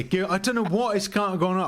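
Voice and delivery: speaking through a yawn; sleepy, mid-yawn words. Real, not acted. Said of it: "I caught you mid yawn there".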